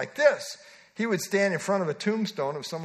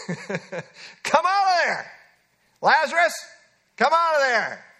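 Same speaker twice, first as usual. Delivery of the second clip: loud, drawn-out commanding call; preacher acting Jesus calling into the tomb, shouting; shouted order; 7 semitones higher, 4 dB louder, slower than usual. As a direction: order him out of the grave. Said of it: "It was an order".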